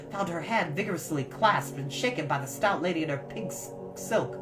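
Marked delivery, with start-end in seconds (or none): none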